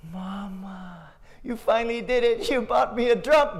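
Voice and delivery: put-on high child voice, amazed; delighted kid voice; thrilled little boy. Boy thinks he got drum.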